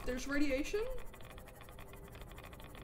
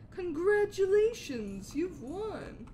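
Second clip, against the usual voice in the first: sarcastic; 4 semitones higher, much slower than usual. Pretend. Sarcastic game summary.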